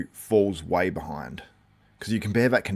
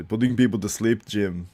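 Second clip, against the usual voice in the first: Arnold. Retold or imitated. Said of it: "I think he said, uh".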